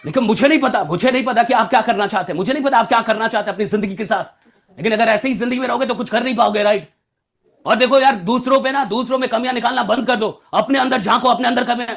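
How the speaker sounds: brisk, scolding lecture; angry. Shown as a demonstration. Speaker scolding listeners with an angry face, fast. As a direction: tell them off with an angry face. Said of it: "face पे गुस्सा लेके आओ".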